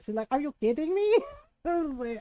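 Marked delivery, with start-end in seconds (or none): 0.3-1.2 mildly exasperated imitation of mom; higher mock-incredulous motherly question; indignant mom. Mom not having it with her kids, indignant. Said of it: "My mom was not having it".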